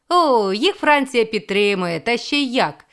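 quick jab. A narrator's reading.

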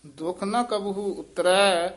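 ਦੁਖ ਨ ਕਬਹੂ ਉਤਰੈ said slowly, then a pause after ਉਤਰੈ; slow recitation that rests after ਉਤਰੈ; teacher's slow model line with a break after ਉਤਰੈ. Shown as a demonstration. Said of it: "ਇੱਥੇ ਵਿਸਰਾਮ।".

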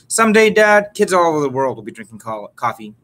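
bright teasing call to his father that settles by the end; playful boast. Acted. Son playfully boasting to his father over morning coffee, excited.

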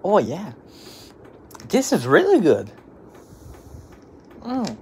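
vape in mouth; speaking between puffs; talking around vape. Real, not acted. Seen 0: blue vape between lips most of the stretch, hand covers mouth mid-way.

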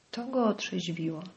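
ordinary delivery

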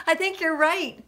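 high, happy agreement; cheered. A narrator's reading. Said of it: "cheered Puddle".

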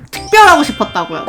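usual speaking voice

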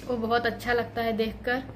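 holding back tears while thanking the goddess; tearful. Real, not acted. Emotional prayer to the goddess.

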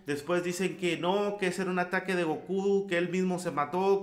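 normal talking voice

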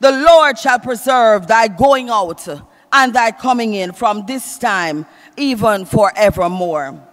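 slow, drawn-out scripture proclamation, settling at the end; declaimed psalm from the pulpit; preach. Acted. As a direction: repeat the verse emphatically to rouse the congregation. Repeats psalm line in preaching voice.

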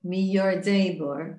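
Miyardei Bor said slowly, syllable by syllable; careful reading. Shown as a demonstration. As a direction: spell out Miyardei Bor as you teach it. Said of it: "you can read this Miyardei".

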